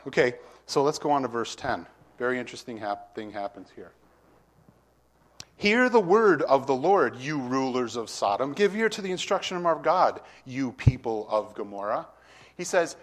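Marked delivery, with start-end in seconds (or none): 5.6-12.1 proclaiming. Acted. Preacher reading God's rebuke aloud.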